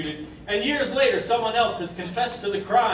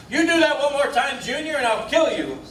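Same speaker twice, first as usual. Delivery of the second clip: higher-pitched acted scolding; mock parental threat; 4 semitones higher, 3 dB louder than usual. Juror imitating a parent warning Junior, mock scolding.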